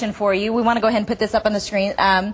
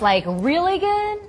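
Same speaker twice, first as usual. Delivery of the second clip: drawn-out rising question; 9 semitones higher, slower than usual. Real, not acted. Coaxing a child's rating.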